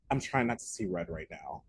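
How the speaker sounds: low, soft, controlled retelling; calm. Retold or imitated. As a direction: quote it calmly, keeping anger in check. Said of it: "in the calmest Kaylee sense".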